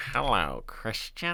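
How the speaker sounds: nasal voice, speaking right through the nose. Imitating a doctor greeting the listener by name: nasal doctor impression. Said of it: "You gotta talk with like your nose".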